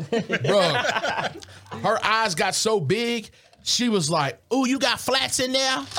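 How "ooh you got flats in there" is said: raised, eager voice; imitating her. Retelling his date's eager question, lightly voiced. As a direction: mimic her wide-eyed excitement. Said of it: "That's how she said it".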